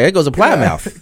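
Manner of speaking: slow, lightly mocked Indian accent on Plymouth; imitating the coworker from India, slow. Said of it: "He's like".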